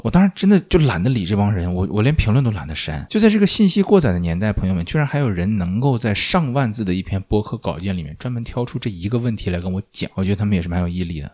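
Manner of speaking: real fed-up rant with punched openings; exasperated ranting. Real, not acted. Podcaster griping about pedantic commenters, exasperated rant. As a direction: vent about nitpickers, leaning hard on key words. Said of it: "我要吐槽了".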